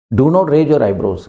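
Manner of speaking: each word spaced out slowly; slow model sentence. Shown as a demonstration. Teacher to students, modelling the phrase slowly. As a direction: say it slowly so students can repeat. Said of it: "ये त्योरी मत चढ़ा".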